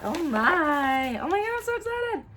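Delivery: high, rapid squeal; real excitement. Real, not acted.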